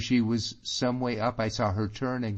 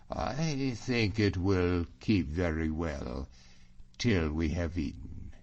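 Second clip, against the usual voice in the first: slightly lowered, slow delaying reply; evasive James. Acted. James delays the talk with Allan, slow and evasive. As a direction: put him off unhurriedly.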